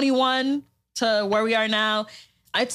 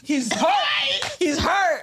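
teasing; 6 semitones higher, much slower than usual. Real, not acted. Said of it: "teasing after the story".

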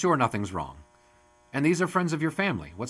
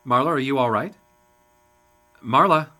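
calling out; 6 dB louder than usual. Acted. Calling to stunned woman.

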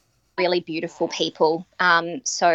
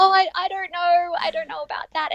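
unsure hesitation; 12 semitones higher than usual. Retold or imitated. Her own hesitant reply retold.

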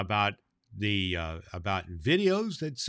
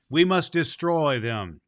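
slow, louder resolve; stern vow; 4 semitones higher, 4 dB louder than usual. Acted. Fairy prince vowing war to the council, slow and firm. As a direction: declare it firmly, each word weighed.

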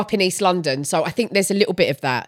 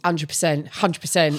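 low, softer Essex accent; Essex catchphrase; 6 semitones lower, 6 dB quieter than usual. Shown as a demonstration. Showing an Essex saying, Essex accent. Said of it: "we say a lot in Essex".

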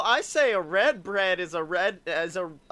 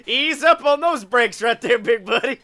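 loud, raised hammed-up Southern redneck; mock redneck accent; 4 semitones higher, 6 dB louder than usual. Comic about to offend folks down here, mock redneck accent. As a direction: play a blustering redneck talking down a buddy. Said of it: "all these motherfuckers down here".

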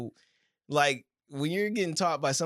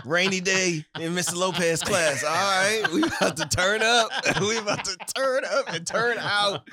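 hype PE teacher. Pretend. Imagining him as a PE teacher.

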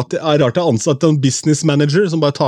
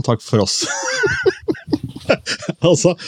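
high squealing laugh after the goodbye; laughing sign-off; 6 semitones higher than usual. Real, not acted. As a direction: sign off through a burst of laughter. Laughs while signing off podcast. (ler høyt og lyst mens han sier takk for oss)

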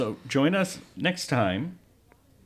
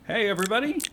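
host greeting; 10 semitones higher, much faster than usual. Acted. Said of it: "host intro take".

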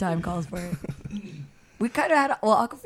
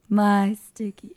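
slow, louder croaky Phoebe impression; Phoebe's phlegm voice; 3 semitones higher, 6 dB louder, much slower than usual. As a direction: croak out "My sticky" slowly. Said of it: "Phoebe's phlegm voice".

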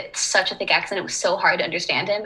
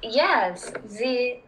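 slow French accent with small stumbles; drawn-out French-accented English; slower than usual. Shown as a demonstration. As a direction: answer in a put-on French accent. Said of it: "tried to do a French accent".

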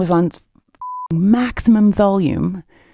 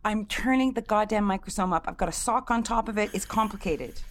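faint, far from the mic; barely audible, off mic; quiet voice; 6 dB quieter than usual. Real, not acted. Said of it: "That's a bit louder".

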